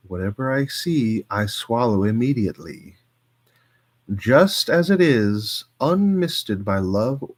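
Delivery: measured poetry recital, some lines slowed; poem reading. Acted. Streamer reading a Plath poem to chat, measured recital.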